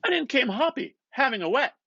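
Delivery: McCoy buttonholing Bloom, loud and eager; McCoy's voice. Acted. McCoy quoting an offer of drink.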